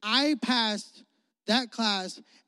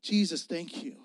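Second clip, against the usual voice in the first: grateful prayer; 2 semitones lower than usual. Retold or imitated. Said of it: "It was".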